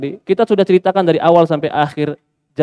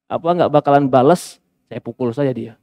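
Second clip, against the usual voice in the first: mock smug wife; 4 semitones lower than usual. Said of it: "Dia manfaatkan dengan".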